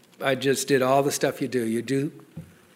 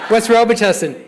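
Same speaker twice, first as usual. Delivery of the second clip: laughing mock question; 6 semitones higher, 4 dB louder than usual. Sponsor grilling about drugs.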